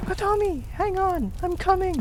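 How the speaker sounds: high, loud frantic yell; panicked rescuer shouting through flames. Acted. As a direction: rush in shouting for help. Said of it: "a loud and panicked voice".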